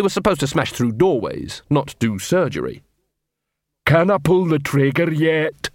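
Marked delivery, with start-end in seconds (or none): 3.8-5.7 slow, heavy troll voice; rumbling troll. A narrator's reading. Detritus at the armourer's ear, slow rumbling troll. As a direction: rumble it slowly, one word at a time. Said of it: "Detritus rumbled into the man's ear".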